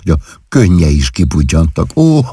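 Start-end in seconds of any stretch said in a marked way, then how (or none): 1.9-2.2 higher voice bubbling with laughter; laughing fondly. Acted. Wife laughing at her mother's misunderstood wish. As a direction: talk through laughter about a silly mother. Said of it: "úgy kaszagott".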